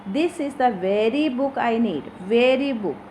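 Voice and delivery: "very" lifted as the key word; stress on very. Shown as a demonstration. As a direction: lean firmly on "very" before "book". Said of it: "giving the importance to the word very".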